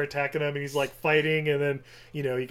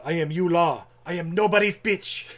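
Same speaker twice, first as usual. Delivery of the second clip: cold rasping evil emperor; 3 semitones higher, 5 dB louder than usual. Retold or imitated. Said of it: "he stands up".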